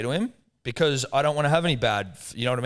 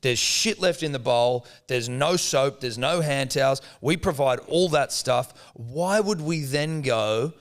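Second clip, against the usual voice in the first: exasperated rant; 2 semitones higher, slower than usual. Retold or imitated. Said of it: "I go".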